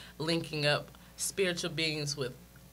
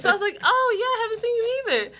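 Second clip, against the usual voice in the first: laughing; 7 dB louder, faster than usual. Retold or imitated. Laughing high quoted reply.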